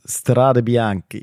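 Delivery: "Strade Bianchi" very slow and drawn out; "Strade Bianchi" deliberately stretched in Italian style; careful Italian pronunciation. Shown as a demonstration. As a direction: savour each syllable of "Strade Bianchi". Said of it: "ich weiß nicht, wie es ausgesprochen wird".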